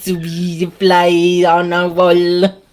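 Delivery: very slow buzzing fly voice. Pretend. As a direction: drone it out like a tiny fly. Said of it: "I'll say it like a fly".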